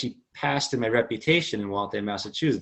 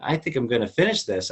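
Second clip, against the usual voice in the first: excited disbelief; 4 semitones higher than usual. Retold or imitated. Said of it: "I'm like".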